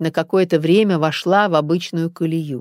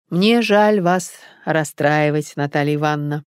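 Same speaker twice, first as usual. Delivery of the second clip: sympathetic. Acted. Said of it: "с сочувствием смотрел". (с сочувствием, медленно и мягко)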